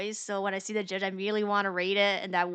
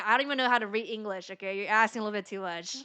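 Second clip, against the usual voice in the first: fast mock rant; faster than usual. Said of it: "act out voice acting".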